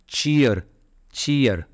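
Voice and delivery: चीयर said alone as one falling beat; syllable isolated. Shown as a demonstration. Teacher showing the first syllable, चीयर set apart and repeated. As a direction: give चीयर by itself, pause, repeat it. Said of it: "चीयरफुल शब्द में दो syllable है".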